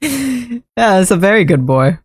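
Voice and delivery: high cooing praise for a pet. Real, not acted.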